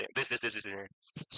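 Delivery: low, trailing imitation of English patter; mock English gibberish, dropping away; mock show-off English. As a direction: mimic a classmate tossing English around. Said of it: "वो English में फेंकता था ऐसे".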